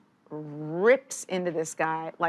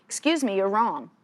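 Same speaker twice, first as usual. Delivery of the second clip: firm loud retort; 3 dB louder than usual. Retold or imitated. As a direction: cut in firmly and loudly to be heard over a yelling boss. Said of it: "firmly and loudly and clearly".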